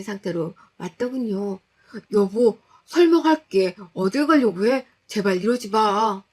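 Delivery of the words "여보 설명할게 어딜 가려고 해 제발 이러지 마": pleading husband. Acted. Husband pleading she not leave.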